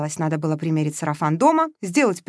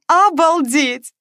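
drawn-out amazed exclaim; 9 semitones higher, 8 dB louder, much slower than usual. Acted. Протяжно и восхищённо: «Обалдеть!». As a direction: stretch it out slowly, high and loud, in awe. Veronika thrilled exclaims again.

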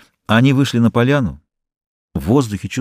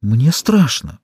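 frightened; 3 semitones higher, much slower than usual. A narrator's reading. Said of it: "воскликнула она".

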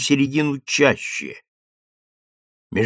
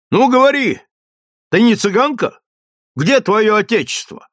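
high, loud, pressing questions; stern interrogation; 9 semitones higher, 4 dB louder than usual. Acted. Sergeant interrogates the suspected spy, loud and pressing. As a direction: press her hard for an answer.

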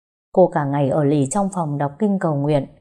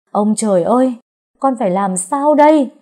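desperate cry, much higher and louder; shouting to heaven; 5 semitones higher, 5 dB louder than usual. A narrator's reading. Man crying out to heaven after failing to find the cure, desperate shout. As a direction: hurl it up at the sky in despair. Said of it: "Cậu ấy hét lên".

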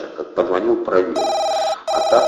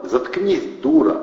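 soft command; 7 semitones higher than usual. A narrator's reading. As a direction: order given gently, not shouted. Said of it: "мягко велел Атасов". (мягко, но повелительно)

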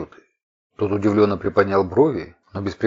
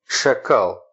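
cobra hiss. A narrator's reading. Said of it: "как кобра прошипела она".

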